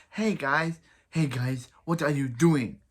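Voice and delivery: light character impression, lively and loud; a hint of a weird, lively character voice; Lonnie. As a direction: lightly mimic a character's odd way of talking. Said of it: "but this is how she talks".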